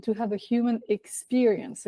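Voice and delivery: "human" given deliberate, mild emphasis; stress on human. Real, not acted. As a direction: lean gently on "human". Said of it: "I'm emphasizing this word".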